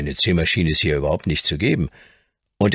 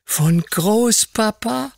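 put-on high, slow, drawn-out child's question; boy amazed his grandfather sent the toys; wide-eyed wonder; much slower than usual. A narrator's reading. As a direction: marvel at it slowly. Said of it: "mit leuchtenden Augen".

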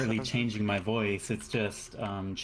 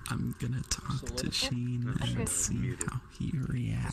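slow whisper through a voice changer; ASMR voice changer, slow whisper. Real, not acted. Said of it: "turn this shit down so I sound normal again".

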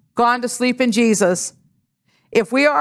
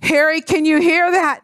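retold scream; 5 semitones higher than usual. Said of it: "I screamed out".

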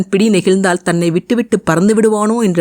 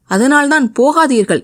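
moaning plea; 7 semitones higher than usual. A narrator's reading. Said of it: "என்றால் முனகியவாறு".

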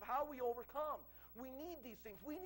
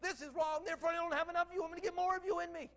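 earnest prayer; 5 semitones higher, 6 dB louder than usual. Shown as a demonstration. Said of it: "just say".

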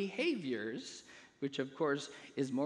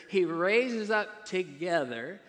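"He raised us up together" said slowly and deliberately; emphatic stress; 4 dB louder, slower than usual. Shown as a demonstration. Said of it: "I want to emphasize that word".

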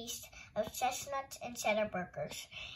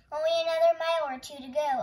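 louder, higher rallying call; encouraging; 4 semitones higher, 8 dB louder than usual. A narrator's reading. Uncle Louie to tired Angelina on the climb, encouraging. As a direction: cheer a tired walker on. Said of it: "Uncle Louie encouraged her".

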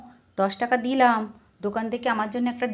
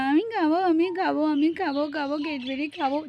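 whining mock cry that fades softer; pretend baby crying; 3 semitones higher, 5 dB quieter than usual. Showing Mishtu how baby cries for Cadbury, pretend crying. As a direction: imitate a baby crying for a treat. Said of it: "দেখো কেমন করে কাঁদছে".

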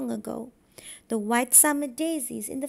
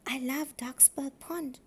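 whispered; 6 dB quieter than usual. Acted. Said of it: "whispered Davy Duck".

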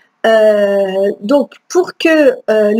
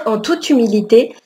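talking through a choke after a sip; choking. Real, not acted. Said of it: "Je me suis étranglée".

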